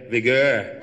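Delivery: "vigor" offered in a different voice; the new vigor. Shown as a demonstration. Jack coaches Bobby, offering a new "vigor". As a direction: model a fresh "vigor". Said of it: "why don't you say".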